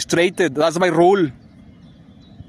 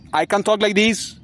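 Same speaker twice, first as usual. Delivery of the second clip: higher-pitched way of talking; altered voice demo; 4 semitones higher than usual. Shown as a demonstration. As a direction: show a put-on voice, pitched up. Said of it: "Usually I talk like this".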